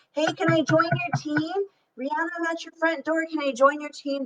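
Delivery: high pleading voice; a mock eager stranger at the door; begging recruit. Imagined recruit begging to join.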